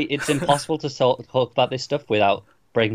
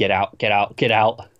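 normal talking voice

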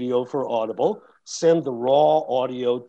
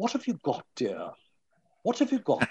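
put-on soft, swooping, upscale posh New York accent; 6 dB quieter than usual. Recalling going upstairs to Frances for a yes or no, imitating her upscale New York accent. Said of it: "in her wonderful upscale New York City accent".

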